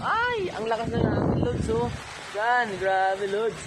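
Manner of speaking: excited exclaim. Real, not acted. Exclaiming about the strong wind.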